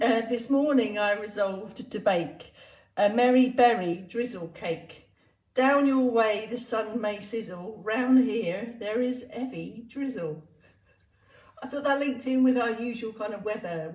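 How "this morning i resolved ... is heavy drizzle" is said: measured comic verse reading; poem recital. Acted. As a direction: recite the rhyme with a steady lilt. Reads a comic poem aloud.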